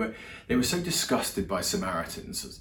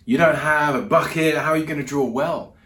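voicing a puzzled woman, higher and louder; confused; 5 semitones higher, 7 dB louder than usual. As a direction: act out confused objection, pitched up. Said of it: "she's kind of a bit confused by that".

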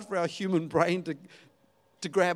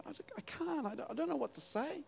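high, much softer, hesitant stammer; timid; 9 semitones higher, 12 dB quieter, faster than usual. Retold or imitated. A believer stammers excuses to God, high and much softer. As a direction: shrink away, stammering and small. Timid reply to God's prompting.

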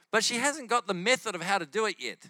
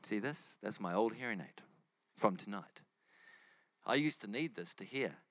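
lower, softer earnest telling; retold sincere testimony; 5 semitones lower, 4 dB quieter than usual. Healed woman tells the cashier her story, sincere. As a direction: confide it gently, with small pauses between phrases.

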